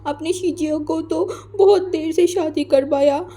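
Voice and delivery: whiny, hurt complaint, voice jumping high on तो मैं क्या बोलूँ; sulking child scolding his mother; tearful sulk. Acted. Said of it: "वो रोने लगा". (रूठा हुआ, रुआँसा बच्चा)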